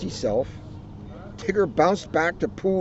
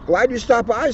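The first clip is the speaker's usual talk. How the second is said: Rabbit voice; 7 semitones higher, 3 dB louder than usual. Acted. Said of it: "said Rabbit".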